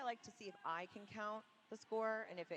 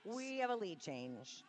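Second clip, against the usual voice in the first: "We have a lead change", stretched slowly; drawn-out announcement; slower than usual. Real, not acted. Announcer repeats the lead change call, drawn-out announcement.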